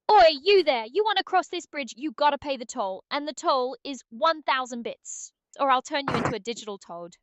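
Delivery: mean troll voice. Acted. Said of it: "Oh, I can do a mean troll".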